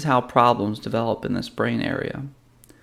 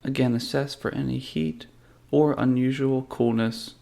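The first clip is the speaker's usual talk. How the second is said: calm, measured meditation guide with long pauses; guided meditation. Real, not acted. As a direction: lead them gently through a body scan, unhurried. Leads a guided body-scan meditation.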